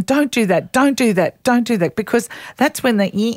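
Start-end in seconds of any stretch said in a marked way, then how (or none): 0.0-2.0 a repeated "Don't do that", slightly raised and scolding; nagging "don't". Shown as a demonstration. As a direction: nag on every "Don't". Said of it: "rather than".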